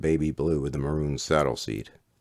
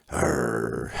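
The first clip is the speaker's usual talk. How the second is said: short growl, winding down; low growl; 2 semitones lower than usual. Acted. Fat kid growling as the chase ends, low growl. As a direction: grumble like a dog guarding its lawn. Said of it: "his shout winding down to a low growl".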